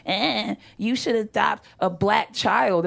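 slow, mock-offended grandmother voice. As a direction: object slowly as an affronted grandma. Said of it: "She was all offended".

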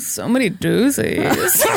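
slow, laughing sultry voice; sexy voice. Pretend. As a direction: play it slow and seductive. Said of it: "people can't handle your sexy voice".

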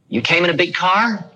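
a gentle hint of the old teacher's voice; light imitation of an old Indian holy man; old guru asking. Guru questions narrator.

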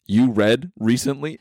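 slow rising incredulous question; mock disbelief. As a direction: act stunned he reads. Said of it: "you were like".

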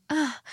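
soft, high moan in imitation; breathy "ah" imitating someone mid-intimacy; mock sex noise. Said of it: "like, making sex noises and stuff".

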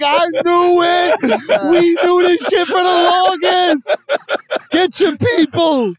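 high, drawn-out comic exclamation; mock outrage. Humans answering the invading aliens, in high mock outrage. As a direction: cry it out high and slow, hammed-up.

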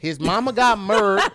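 "murdered" slow, squashed to one syllable; married as murdered. Shown as a demonstration. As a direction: say married so it comes out like "murd". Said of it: "So murdered is married".

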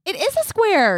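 slow, drawn-out insistence; insistent. Real, not acted. Host insists to her cohost the glasses are square, drawn out. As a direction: dig in and stretch it out.

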